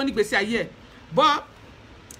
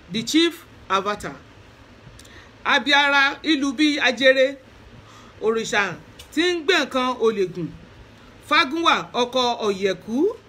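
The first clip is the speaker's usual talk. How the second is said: praise poem recital. Shown as a demonstration. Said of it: "let me do Ifa Oriki before I go".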